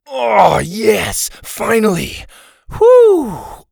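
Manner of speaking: loud high joyful cry; ecstatic. A narrator's reading. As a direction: burst out in relief. Sawyer freed to talk.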